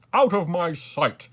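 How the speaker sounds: slow, loud, high dismissal; angry shout. A narrator's reading. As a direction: banish them at full voice. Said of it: "he shouted".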